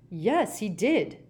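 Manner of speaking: cross, indignant reply; snapped. Acted. Ogden answering Gaunt's taunt, snappish. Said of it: "snapped Ogden".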